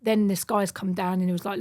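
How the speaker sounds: usual speaking voice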